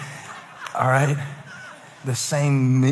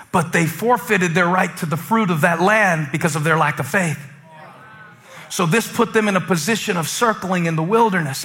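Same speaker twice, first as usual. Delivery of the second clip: higher, driving sermon voice; energetic preaching; 5 semitones higher, 5 dB louder than usual. Real, not acted. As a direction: preach it with rising urgency. Preaches with raised pitch and energy.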